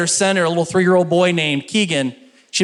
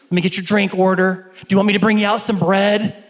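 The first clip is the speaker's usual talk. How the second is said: bubbly server; 3 semitones higher than usual. Retold or imitated. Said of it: "She's very bubbly".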